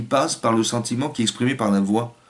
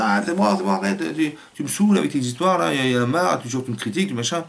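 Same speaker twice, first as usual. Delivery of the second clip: higher, exasperated mock retort; irritated wife; 4 semitones higher than usual. Wife fed up with her husband's criticism, irritated and higher. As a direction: imitate a wife snapping back. Wife's exasperated reply quoted.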